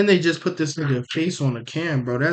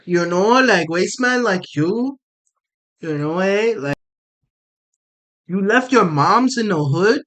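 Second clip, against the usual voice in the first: put-on Toronto roadman accent; 3 semitones higher than usual. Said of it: "The Toronto accent's terrible".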